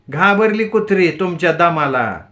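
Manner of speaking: mocking jab at her drunk husband; wife needling her husband, mild taunt. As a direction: sneer it, lightly taunting. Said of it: "Tarabai खिजवल्यासारखी बोलली".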